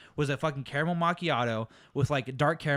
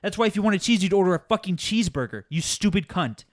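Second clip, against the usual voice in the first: heated, exasperated mock tirade; losing my mind; 3 semitones higher, 4 dB louder than usual. Barista venting about cheese on hamburgers, losing my mind. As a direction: rant it out, pressing hard on the swear words. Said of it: "And I lose my mind".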